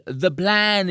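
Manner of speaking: "The plan" in a cringey put-on French accent; a lightly done French accent, mocking. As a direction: ape her awkward French accent on "The plan". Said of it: "in this cringe-inducing French accent".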